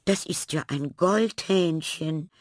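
high-pitched cry of wonder; astonished exclamation. A narrator's reading. Teacher recognises the tiny bird, astonished exclamation. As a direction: exclaim in amazed discovery. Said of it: "rief Frau Lerche verwundert aus".

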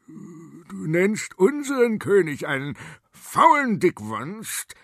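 shaking with held-back anger; trembling voice. Acted. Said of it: "mit bebender Stimme". (mit bebender Stimme, empört)

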